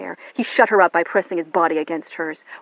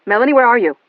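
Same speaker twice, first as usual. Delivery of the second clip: urgent; 5 semitones higher, 11 dB louder, faster than usual. Acted. David urgent on phone.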